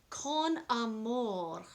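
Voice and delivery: slow, careful Spanish accent on "Con Amor"; apologetic try at a Spanish accent. Shown as a demonstration. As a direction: attempt the Spanish "Con Amor" slowly, a little unsure. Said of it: "I have a horrible accent".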